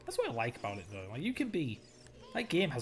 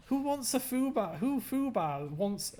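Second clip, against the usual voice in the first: high loud stumbling words; tripping over words, excited; flustered excited; 11 semitones higher, 5 dB louder, slower than usual. Real, not acted. Tongue-tied laughing outburst.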